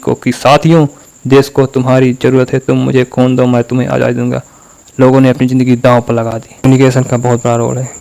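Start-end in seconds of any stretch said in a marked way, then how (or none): 0.3-4.4 firm rallying address, mildly fiery; rally the crowd with conviction; fiery, impassioned. Shown as a demonstration. Netaji addressing the public for freedom, impassioned. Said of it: "अपनी आंखों में खून उतार कर बोल रहे हैं".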